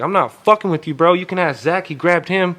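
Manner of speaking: high-pitched imitated protest; heated insistence. Tripping friend calling on a witness, heated insistence.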